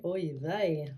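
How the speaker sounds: "Oy vey" in a Yiddish accent. Shown as a demonstration. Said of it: "European Jewish ancestry accent on. Say".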